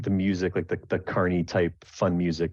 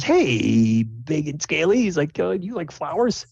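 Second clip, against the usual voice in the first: higher, playful taunt; teasing jester; 9 semitones higher than usual. Acted. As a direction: bait the dragonborn sweetly.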